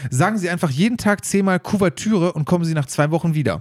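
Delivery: measured read-aloud storytelling voice; joke reading. Acted. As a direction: read the joke out evenly, phrase by phrase. Reads another joke aloud. (Witz vorlesen)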